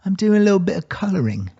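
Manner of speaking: a light take on a dazed rock star; impression of a rock singer. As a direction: drift through it like a contented rocker. Imitating a rock singer coloring.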